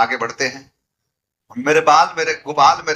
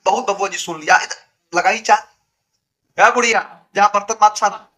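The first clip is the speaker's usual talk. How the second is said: rude bossy shout; 5 semitones higher than usual. Retold or imitated. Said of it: "ऐसा tone में सबको सुनाया". (बहू सबको ऊँची, तेज़ आवाज़ में डाँटती हुई)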